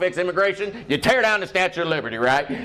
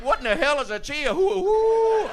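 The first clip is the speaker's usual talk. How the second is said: slow confused hick; 9 semitones higher than usual. Retold or imitated.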